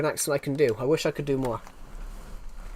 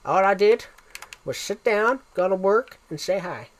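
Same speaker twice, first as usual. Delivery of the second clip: put-on Texan accent, pitched up; higher-voiced Texan with rising phrase ends; 4 semitones higher than usual. Shown as a demonstration. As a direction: show off a Texan impression. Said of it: "doing that accent was just".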